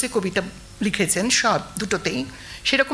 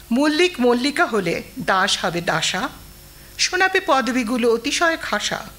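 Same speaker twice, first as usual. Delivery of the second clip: lightly rhythmic recital of a comic rhyme; poem reading. Acted. Teacher reads Sukanta's funny poem aloud, light rhythmic recital. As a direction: read it with a gentle bounce at each rhyme. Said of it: "কবিতাটা পড়ছি".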